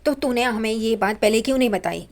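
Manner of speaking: half-voiced angry yell at the son; mock shout. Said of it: "Paresh चिल्लाता है".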